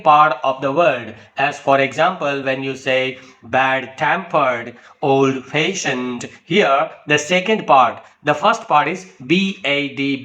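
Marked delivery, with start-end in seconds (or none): 3.4-4.8 bad-tempered with weak bad, strong TEM; stress on second part. Shown as a demonstration. Teacher demonstrating compound adjective rhythm, stress on second part. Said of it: "emphasis is mainly given on the second". 5.0-6.3 put-on slow old-fashioned, weight on FASHIONED; stress on second part. Shown as a demonstration. Teacher demonstrating a compound adjective, stress on second part. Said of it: "emphasis is mainly given on the second".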